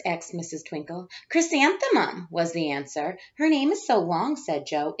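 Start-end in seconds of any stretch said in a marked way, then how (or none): 1.3-2.3 higher, louder taunt; mocking kids. The girls answering the teacher, high loud mockery. 3.4-4.3 higher, louder whine; whiny girl. Acted. Jo complaining to Missus Twinkle, higher louder whine.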